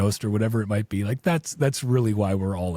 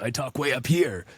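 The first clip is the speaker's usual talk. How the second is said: lightly put-on higher voice, rising at the end; high-pitched voice; 4 semitones higher than usual. Shown as a demonstration. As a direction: demo of talking way up high. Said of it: "really weird or high-pitched voices".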